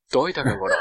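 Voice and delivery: nice voice. Acted. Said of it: "いい声でね。".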